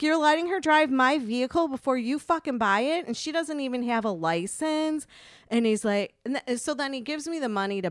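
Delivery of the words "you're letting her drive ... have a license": louder, higher, indignant disbelief; retold pissed-off outburst. Retelling confronting the guy who let her drive, pissed off. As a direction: re-enact confronting him, heated and emphatic. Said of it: "I was so pissed".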